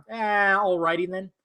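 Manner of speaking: slow drawn-out Ace Ventura catchphrase; lightly voiced Ace Ventura, stretched out; Ace Ventura line. Answering a chat request, a mild Ace Ventura voice. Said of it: "Got an Ace Ventura impression?".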